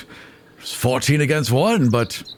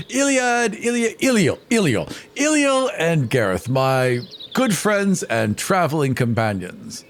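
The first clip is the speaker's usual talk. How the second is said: higher, groping for the names; fumbling vain bard; 4 semitones higher than usual. Acted. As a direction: stumble over the names with fake confidence.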